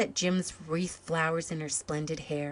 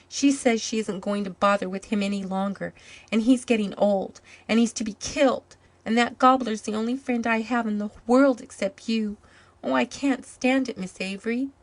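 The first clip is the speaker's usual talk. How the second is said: put-on upset boy; 5 semitones higher, 5 dB louder than usual. A narrator's reading. Boy sobbing over his gobbler.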